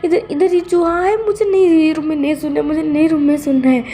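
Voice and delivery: high, whiny frightened boss; a lightly hammed-up scared man; scared Wang ji. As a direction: plead in mock panic about the mouse. Wang ji refuses room.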